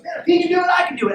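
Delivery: high, loud burst of belief; excited conviction. Acted. Penguin inspired by flying friend, excited shout. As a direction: shout it with new-found confidence.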